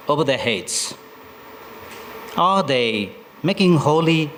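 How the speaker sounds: measured recital, lingering on images; poem reading. Acted. Poet describes bathers at Sali Nadi for listeners, measured poem reading. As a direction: recite phrase by phrase, pausing between lines.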